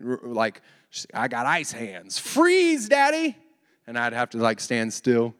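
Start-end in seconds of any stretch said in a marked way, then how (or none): 1.1-3.4 a daughter's playful command, hint of a child voice; child playing Elsa. Little girl to her dad, playing ice magic, a light childlike call.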